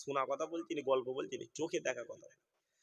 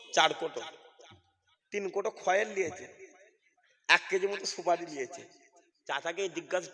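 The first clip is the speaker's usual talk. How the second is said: normal talking voice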